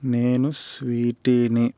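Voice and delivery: menacing movie punchline. Acted. Punch dialogue again.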